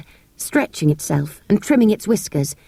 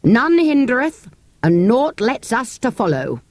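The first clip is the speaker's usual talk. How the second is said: archaic man-at-arms; mock him gruffly; gruff soldier; 4 semitones higher than usual.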